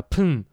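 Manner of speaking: spitting sound. Retold or imitated. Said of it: "he said".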